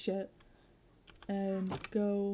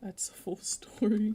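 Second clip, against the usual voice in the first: whispering; 4 dB louder than usual. Acted. Mock dramatic ending.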